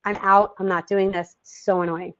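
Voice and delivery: a little one quitting in a huff; lightly voiced annoyed child; mock fed-up kid. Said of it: "they're like".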